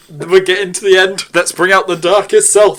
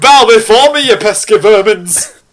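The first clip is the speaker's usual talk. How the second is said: dark lord. Acted. Character commanding underlings.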